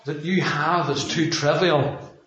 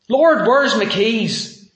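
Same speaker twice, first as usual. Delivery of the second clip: slow, louder, higher exasperated cry; mock desperate plea; 7 semitones higher, 6 dB louder, much slower than usual. Preacher acting a believer praying over lost keys, slow mock-exasperated cry. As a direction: drag it out like a hammed-up lost-keys panic. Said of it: "who has never lost their keys".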